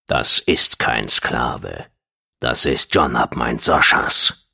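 very low, slow menace; threateningly deep. A narrator's reading. Dashab claims John before Gong, threateningly deep. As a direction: drop deep and space out each word. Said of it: "Dashabs Stimme hatte eine bedrohliche Tiefe angenommen".

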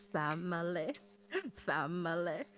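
low chanted backing vocal; deep voice. Acted. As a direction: drop into a deep singing voice. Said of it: "can't do it in the deep voice".

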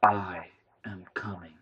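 slow alien message; alien machine voice. A narrator's reading. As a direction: speak as the thing behind the screen. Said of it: "The screen blinked".

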